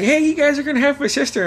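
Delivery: high, quick excited news-breaking; imitated announcement. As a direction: rattle off the big news up high.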